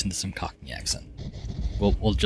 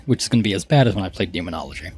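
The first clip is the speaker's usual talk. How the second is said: hoarse voice; faster than usual. Real, not acted. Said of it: "I'm losing my voice".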